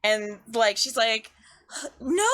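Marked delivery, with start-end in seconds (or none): 2.0-2.3 high, drawn-out mock cry of alarm; alarmed mother. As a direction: let out a high, horrified no. Mother alarmed at seeing mask.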